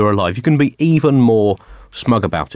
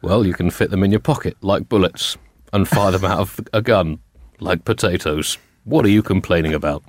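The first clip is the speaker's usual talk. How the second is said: lightly voiced Obama; 5 semitones lower than usual. Barack defending the bullets to his wife, low and unbothered. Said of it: "go for the full Obama".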